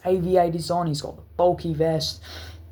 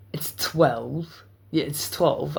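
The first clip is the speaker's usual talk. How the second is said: whispered aside; much slower than usual. Real, not acted.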